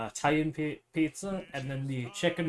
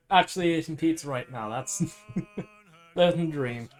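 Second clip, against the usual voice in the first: put-on Irish accent. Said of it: "I'm doing an Irish accent".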